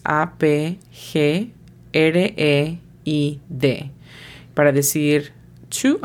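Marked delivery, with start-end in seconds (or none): 0.0-3.9 A P G R E I D, slow Spanish letter names; phonetic spelling. Shown as a demonstration. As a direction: spell out A P G R E I D unhurriedly. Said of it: "La pronunciación fonética de upgrade es". (deletreo fonético lento de A P G R E I D)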